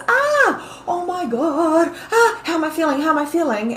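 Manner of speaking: high, flustered inner voice; hammed-up worry, high-pitched; mock panic. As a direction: play up an anxious fretter, pitch jumping up. Acting out someone sitting in panic.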